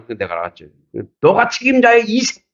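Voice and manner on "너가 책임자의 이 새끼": high-pitched angry outburst, imitated; retold insult, pitched way up; imitated cursing. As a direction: act out someone hurling abuse at a pastor. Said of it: "저한테 욕을 하는 거예요".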